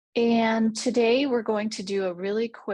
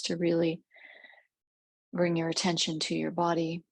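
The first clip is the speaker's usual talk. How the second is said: measured meditation voice with long pauses; guided meditation. Real, not acted. Guide leads listeners through a rose clearing visualization, calm meditative delivery. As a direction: guide gently, leaving space between phrases.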